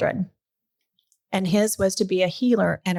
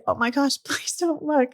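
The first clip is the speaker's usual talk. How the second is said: retold embarrassed plea; 7 semitones higher than usual.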